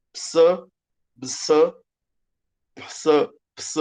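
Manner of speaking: ps said as a crisp p-s cluster; ps sound. Shown as a demonstration. Greek teacher drilling the psi sound. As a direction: isolate ps, short and clean. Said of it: "você vai pronunciar tudo como ps".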